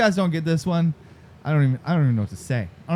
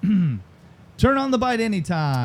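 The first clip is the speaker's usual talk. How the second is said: slow, raised slogan read; tagline read-out; 4 semitones higher, slower than usual. Shown as a demonstration. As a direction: announce it with drawn-out words. Host repeats tagline for players.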